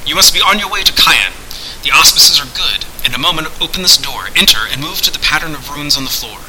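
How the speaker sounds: lightly declaimed voice of a hidden master; instructing sorcerer. Acted. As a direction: instruct him with formal gravity. Voices Pendulum sending him off.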